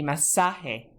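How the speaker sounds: masaje with SA stressed; stress on second-to-last syllable. Shown as a demonstration. Teacher shows students the spoken accent, stress on SA in masaje. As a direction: lean on the middle of ma-SA-je. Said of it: "accent on the second to last syllable".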